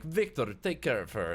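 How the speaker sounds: put-on Russian-accented order to a henchman; brisk acted order, Russian accent; Vlad, Russian accent. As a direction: crime boss command in a Russian accent. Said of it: "Russian accent".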